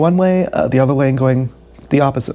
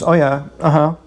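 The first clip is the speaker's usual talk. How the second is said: forced small talk; 3 semitones higher than usual. Retold or imitated. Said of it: "I'm giving one-word responses".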